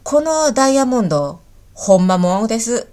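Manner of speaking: demonstrated Kansai intonation; Kansai dialect. Shown as a demonstration. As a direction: give the example with a Kansai accent. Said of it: "関西弁で言うと". (関西弁で)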